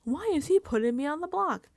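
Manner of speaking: mildly hammed-up indignant quote; unhappy housemate. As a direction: imitate an unhappy complainer demanding answers. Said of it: "Mickey is unhappy. She's like".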